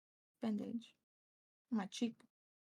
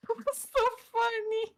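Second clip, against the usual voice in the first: amused; 9 semitones higher, 4 dB louder than usual. Real, not acted. Amused after scaring each other.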